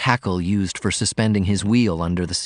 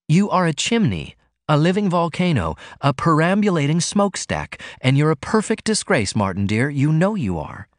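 a hint of a prim young woman, higher, mildly scolding; Ruth, lightly voiced; 6 semitones higher than usual. Ruth playfully lectures Martin on his smoking, lightly voiced. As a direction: lightly voice Ruth, teasing him.

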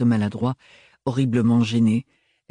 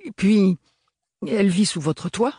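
bafouillage; 9 semitones higher than usual. A narrator's reading. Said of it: "bafouilla-t-elle".

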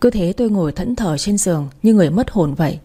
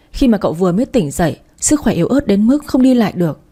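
outraged; 3 semitones higher than usual. Acted. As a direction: fume at the husband's cruelty. Friend outraged at the divorce.

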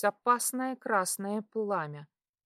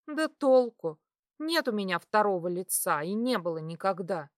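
usual speaking voice

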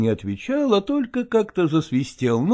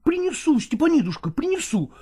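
shrill it out like a cranky village cook; cook squabbling; 10 semitones higher than usual. Acted. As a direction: cook squabbling with Ivan over a match. Cook bickering with Ivan.

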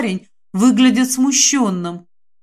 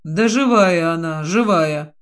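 ниже, мягко, чтобы успокоить; ровно и утешающе повторяет живая; успокаивающе; 4 semitones lower than usual. Acted. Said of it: "успокаивающе сказал кто-то". (успокаивающе, низким голосом)

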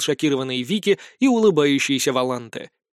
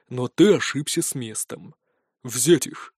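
cold order; 4 semitones lower, slower than usual. A narrator's reading. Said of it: "помрачнел заискивающий толстячок".

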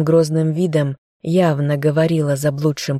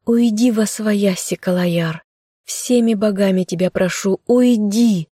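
put-on girl screaming at the man to go away; shouting; 4 semitones higher than usual. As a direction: beg him to leave, yelling. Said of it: "закричала она".

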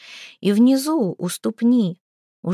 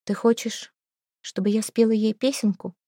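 put-on calm child; 3 semitones higher, 3 dB quieter than usual. A narrator's reading. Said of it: "спокойно спросила Диана".

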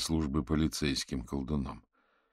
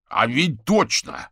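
loud, high, drawn-out realisation; exclaiming; 8 semitones higher, 9 dB louder, slower than usual. Acted. Viktor seizes on Averin's theory, exclaiming. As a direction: exclaim as it suddenly clicks. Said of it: "воскликнул Виктор".

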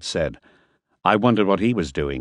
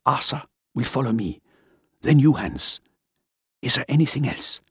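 higher, fussy man's voice; fussy character voice; 6 semitones higher than usual. Acted. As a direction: lecture it in a higher voice. Miller gives orders.

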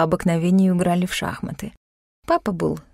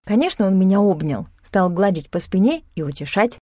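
ordinary delivery

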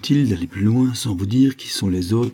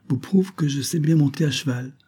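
put-on higher-pitched little girl voice; proud child, pitched up; 7 semitones higher than usual. A narrator's reading. Girl boasts to her parents, little girl voice. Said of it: "dit alors la fillette".

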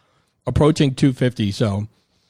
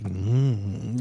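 mock purr; 5 dB quieter than usual. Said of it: "doing this cat thing".

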